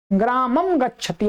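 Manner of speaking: ग्रामं said as graamam, lips closed on the final m; m pronunciation. Shown as a demonstration. Teacher repeating how some people say it, anusvara as m. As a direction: close ग्रामं on a plain m before गच्छति. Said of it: "ऐसा बोलते हैं".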